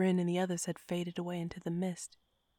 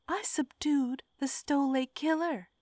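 higher, insistent defence; defensive; 8 semitones higher than usual. A narrator's reading. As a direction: defend yourself, pushing back. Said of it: "I defended".

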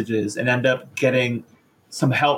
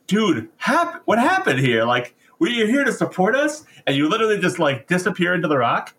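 baffled Elementors; 5 semitones higher than usual. Retold or imitated. Elementors voiced in retelling.

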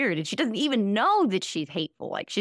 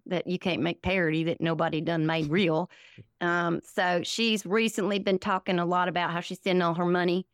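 put-on folksy Southern accent, rambling along; Southern parody character. Comedian as her Southern MAGA character explaining herself, Southern parody voice.

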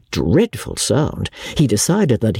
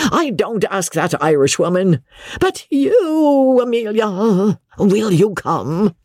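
high-pitched shouted appeal; 9 semitones higher than usual. A narrator's reading. Joss demanding that Amelia come with him, exasperated shout. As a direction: call out high and insistent, stretching the plea. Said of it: "Joss shouted".

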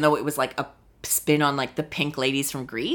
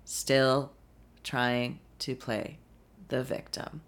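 much softer, slow and sneering; mocking victim voice; 4 semitones lower, 8 dB quieter, slower than usual. Real, not acted. Scoffing at Erica's victim act on Twitter. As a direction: drop to a slow sarcastic murmur. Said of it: "sneering at playing the victim".

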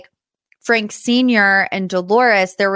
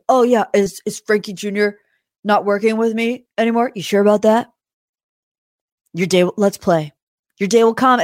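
pompous. Retold or imitated. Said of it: "puffing up his chest".

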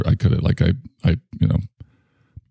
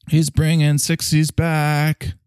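put-on awestruck kids voice; 8 semitones higher, slower than usual. Kids praising hip dad.

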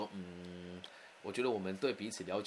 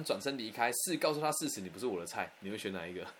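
usual speaking voice

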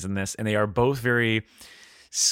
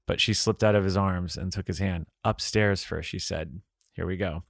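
composed storytelling, softer at sentence ends; story narration; 2 semitones lower, 3 dB quieter than usual. A narrator's reading. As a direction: read the love scene evenly aloud. Resumes reading the passage.

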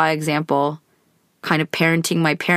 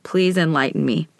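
challenging. Retold or imitated. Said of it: "So then I was like".

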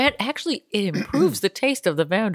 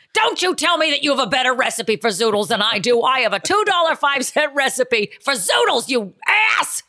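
higher, huffy mock rant; mock angry housewife; 4 semitones higher than usual. Housewife fighting over a zoodle recipe, mock huffy. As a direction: defend your zoodles in a huff.

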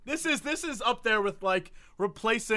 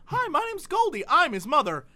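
real mom reading; 6 semitones higher than usual. Retold or imitated. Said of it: "That was her name, Goldie".

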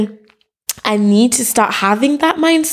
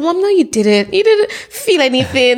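higher-pitched, exasperated daughter; mock exasperation; 4 semitones higher than usual. Daughter to dramatic mom, mock exasperated protest. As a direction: playfully shut down mom's drama.

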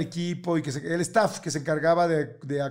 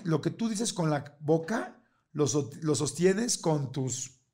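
slow, soft and deliberate; measured, solemn delivery of a family motto; saying a favorite maxim; 5 dB quieter, slower than usual. Shown as a demonstration. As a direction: lay the saying down slowly like a lesson. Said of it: "hay una frase que yo digo mucho".

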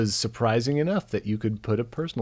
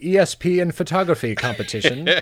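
announcer voice; 10 semitones higher than usual. Pretend. Mock village announcement.

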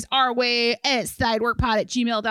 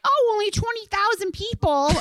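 relieved; 11 semitones higher than usual. Retold or imitated. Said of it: "I was like".

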